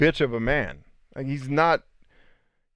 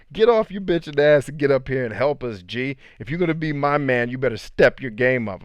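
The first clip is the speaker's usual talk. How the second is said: lightly acted scolding, a bit higher; pushy, mildly raised mock telling-off; Rosa; 3 semitones higher, 4 dB louder than usual. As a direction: tell off a slacking boyfriend. Acting out Rosa scolding Cecil.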